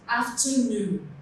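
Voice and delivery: AFTERNOON with the weight on a drawn NOON; stress on last syllable. Shown as a demonstration. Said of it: "Noon is stressed".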